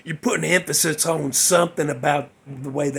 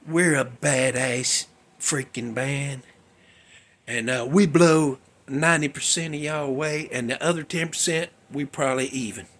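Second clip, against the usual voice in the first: mock arrogant band; 4 semitones lower, 4 dB quieter than usual.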